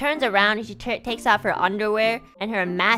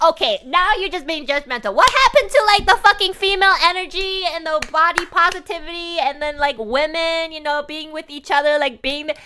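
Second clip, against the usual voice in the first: higher, louder, offended rant; indignant rant; 7 semitones higher, 4 dB louder than usual. Retold or imitated. Ranting at the judgmental stripper, high and loud. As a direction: rant at her, fully offended. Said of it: "gave this woman a look like".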